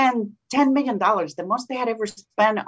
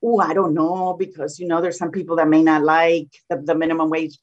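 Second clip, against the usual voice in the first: lower, half-hearted hedge, mocking timid Democrats; tepid mock hedging; 3 semitones lower than usual. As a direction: shrug it off like a timid politician, mockingly. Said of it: "like, tepid".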